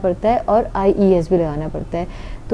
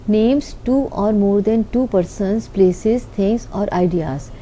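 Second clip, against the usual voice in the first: very slow, each word set apart; slow dictation; much slower than usual. Shown as a demonstration. Teacher dictating the plural noun definition, very slow. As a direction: read it out slowly so students can write.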